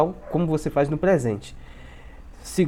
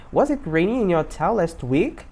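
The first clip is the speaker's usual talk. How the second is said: slow, measured question rising at the end; slow model sentence. Shown as a demonstration. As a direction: say it slowly for learners to copy. Teacher models slowly, then faster. (pergunta modelo, bem devagar)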